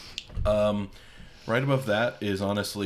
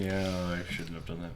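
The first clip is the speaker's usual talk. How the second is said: eating sour candy. Real, not acted. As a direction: mouth full after a big bite. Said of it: "You just really went all in on that one".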